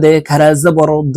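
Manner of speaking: heavy emphatic d in দ; thick emphatic Arabic dad; heavy Arabic letter. Shown as a demonstration. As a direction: say দ thick and full from the back. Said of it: "মোটাভাবে উচ্চারণ হবে".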